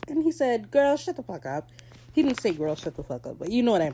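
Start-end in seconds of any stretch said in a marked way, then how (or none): 0.7-1.7 high-pitched mock outburst; sassy retold retort. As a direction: throw it out high, playing the fed-up boss. Acts out boss's retort, then corrects herself.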